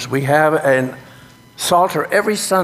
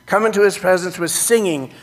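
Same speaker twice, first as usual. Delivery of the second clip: demo congregation part; 4 semitones higher than usual. Shown as a demonstration. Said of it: "start with".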